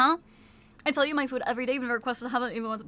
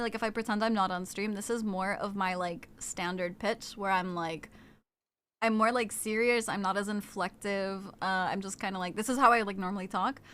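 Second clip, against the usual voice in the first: normal voice; 6 semitones lower, 7 dB quieter than usual. Shown as a demonstration. Streamer demonstrating her normal off-stream voice, lower and softer. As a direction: lower and softer, flat everyday voice. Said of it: "if I, if I talk, like, normally".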